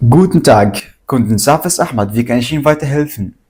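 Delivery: brisk polite phone greeting; customer service voice. Acted. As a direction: answer the phone like an agent. Agent greets caller.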